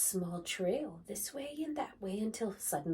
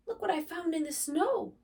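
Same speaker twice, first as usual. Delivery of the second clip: higher, louder urgent call; excited cry; 9 semitones higher, 5 dB louder than usual. Acted. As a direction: burst in with the news. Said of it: "cried Fox".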